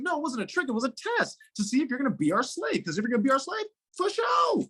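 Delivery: high, taunting spirit voice; smug gods explaining the test, high and taunting; high mock gods voice. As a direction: play the smug gods mocking her. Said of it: "they're like".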